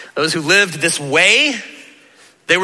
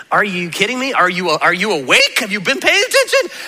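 acted disbelief; 3 semitones higher than usual. Preacher acting out disbelief at his listeners, incredulous. Acts out exasperated disbelief at the crowd.

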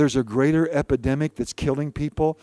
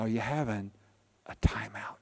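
lower, soft gentle asking; soft question; 8 semitones lower, 12 dB quieter than usual. Retold or imitated. Pastor gently asking a tired member, softly. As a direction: ask it softly, like a pastor checking in.

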